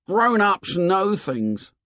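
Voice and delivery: put-on high, slow boy's voice; high-pitched, earnest conviction; Piggy insisting. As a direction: assert it in a high boyish voice.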